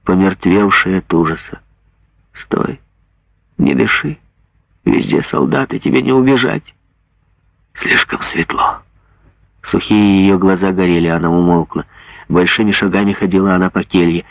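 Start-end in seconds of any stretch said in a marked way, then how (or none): 2.4-8.8 mother whispers urgently to hidden daughter; tense hush. Acted. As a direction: keep her silent in danger. Mother hushes daughter, soldiers near.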